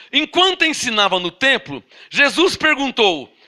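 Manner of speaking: "enquanto ensinava no templo" in storytelling tune; intonation shown. Shown as a demonstration. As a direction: read it out as narrative, slowing on "Jesus perguntou". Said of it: "olha, olha a entonação". (entonação de quem conta história)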